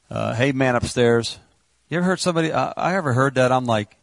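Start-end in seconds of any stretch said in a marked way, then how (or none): 0.3-1.4 mock casual greeting. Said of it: "He's not going".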